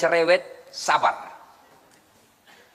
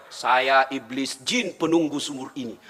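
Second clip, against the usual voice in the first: lightly voiced jinn; 7 semitones lower than usual. Jinn of the well speaks.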